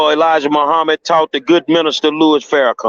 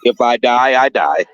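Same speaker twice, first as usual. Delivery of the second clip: put-on low, heavy Russian boxer accent; deadpan Russian fighter from Rocky; 7 semitones lower than usual. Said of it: "in my Russian rocky voice".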